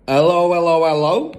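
loud, high parrot squawk; parrot calling. A narrator's reading. Parrot calls down the chimney to Matilda, squawking. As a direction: call out repeatedly like a parrot. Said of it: "the bird called down to her".

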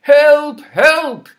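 loud high cry of help; calling for help. Acted. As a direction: call out in a panic. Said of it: "he cried".

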